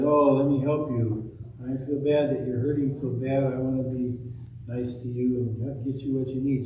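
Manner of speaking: Samaritan comforting the wounded man; gentle Samaritan. Acted. Kind Samaritan speaks.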